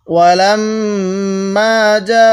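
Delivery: ওয়ালাম্মা যা with the যা drawn out long; four-alif madd. Shown as a demonstration. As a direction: stretch যা over four counts. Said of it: "চার আলিফ টান দিব". (যা চার আলিফ টেনে পড়া)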